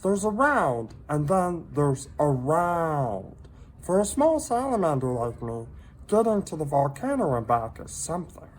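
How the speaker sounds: high little creature voice, gently pitying; a tiny pet breaking hard news kindly; sympathetic salamander voice. A narrator's reading. Minton consoling lonely Hector, high sympathetic voice. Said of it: "said Minton".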